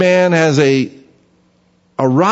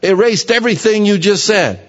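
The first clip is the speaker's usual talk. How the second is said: higher, fast, exasperated; exasperated inner retort; 5 semitones higher, faster than usual. Retold or imitated. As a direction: roll your eyes and blurt it out. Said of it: "and you think".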